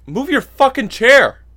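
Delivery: loud, high-pitched angry demand; exasperated shout. Retold or imitated. Moviegoer confronting a man blocking the way, exasperated shout. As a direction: yell it at a stranger in your way.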